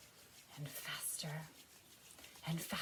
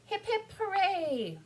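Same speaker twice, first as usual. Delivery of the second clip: loud, high, drawn-out cheer; rousing cheer; 10 dB louder, slower than usual. Pretend. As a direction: lead children in three cheers. Should we do three cheers.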